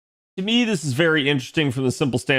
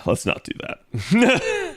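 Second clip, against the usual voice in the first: laughing; 10 semitones higher, much slower than usual. Real, not acted. Laughing at own French idea.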